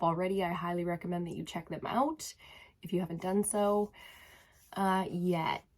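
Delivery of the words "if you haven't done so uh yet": breathy whisper tacked on the end; tiny whispered afterthought; whispered aside. Real, not acted. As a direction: drop to a whisper for the last word. Soft aside to viewers.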